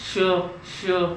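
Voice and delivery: श pushed out with effort; forced sh. Shown as a demonstration. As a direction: put force behind the श. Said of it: "श में जोर लगता है". (ज़ोर लगाकर श)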